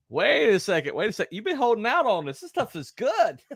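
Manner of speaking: high-pitched, delighted mock protest; acted amazement. Wedding guest tasting the good wine, mock-amazed protest.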